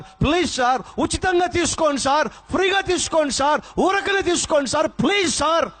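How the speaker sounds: high, urgent begging; desperate pleading. Acted. Worker begs master to accept.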